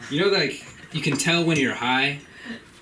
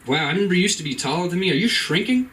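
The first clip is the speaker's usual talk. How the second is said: mock teasing son; 5 semitones higher, faster than usual. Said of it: "For me, it's like".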